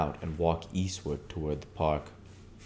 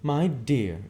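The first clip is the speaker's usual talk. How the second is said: higher, louder gush to a friend; Myrtle gushing; 8 semitones higher, 5 dB louder than usual. Acted. Myrtle offering Mrs. McKee her dress, higher showy gush. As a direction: call out grandly, pitched up. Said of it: "she cried".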